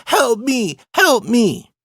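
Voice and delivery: high-pitched mock call for help; imitated child's shouting. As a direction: mimic a small kid calling out, high. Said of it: "he starts shouting".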